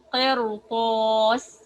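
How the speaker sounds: the ra in قرطاس said heavy, full mouth. Shown as a demonstration. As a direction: repeat قرطاس with a thick ra. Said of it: "The second word is".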